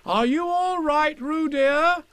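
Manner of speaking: high, slow, worried mother call; anxious Kanga. A narrator's reading. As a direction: call out anxiously to your child. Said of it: "called Kanga anxiously".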